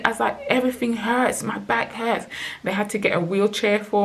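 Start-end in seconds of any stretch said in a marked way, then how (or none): 0.5-2.3 high, retold plaint of pain; pained complaint. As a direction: complain as if everything aches. Retelling being struck by crippling pain.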